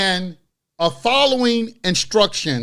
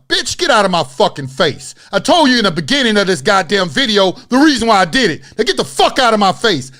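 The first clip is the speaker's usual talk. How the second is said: forceful, heated telling-off, replayed; retold angry telling-off; 4 dB louder than usual. Creator retelling his clash with a lady who attacked him, angry telling-off. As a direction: replay telling someone off, pushy and louder. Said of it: "I gotta talk to people like that".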